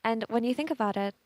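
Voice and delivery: winded, catching breath between words. Real, not acted. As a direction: talk while still out of breath. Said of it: "out of breath".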